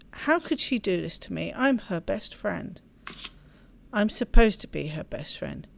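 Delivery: reading the game's story aloud; storyteller reading a visual novel; story narration. Acted. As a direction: narrate the novel text evenly. Reads visual novel text aloud.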